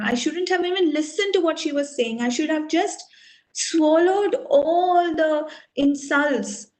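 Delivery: mildly acted bitter regret; blaming himself. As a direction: reproach yourself, drawing out the last words. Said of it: "starts blaming himself".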